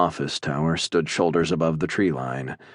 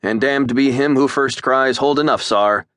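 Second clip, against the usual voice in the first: higher, theatrical Shakespeare line; quoting Macbeth; 8 semitones higher, 4 dB louder than usual. A narrator's reading. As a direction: cap the quote with a flourish. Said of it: "lay on, Macduff".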